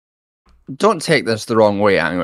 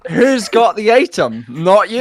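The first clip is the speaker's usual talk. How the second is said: whisper yelling; 8 semitones higher, 3 dB louder than usual. Pretend. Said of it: "the whisper yelling that couples do".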